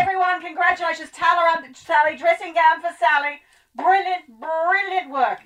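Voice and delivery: high, effusive praise for the crew; effusive director. Pretend. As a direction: congratulate everyone like a proud director.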